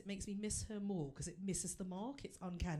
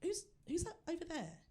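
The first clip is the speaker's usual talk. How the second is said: curious; 8 semitones higher than usual. Retold or imitated. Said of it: "I'm like".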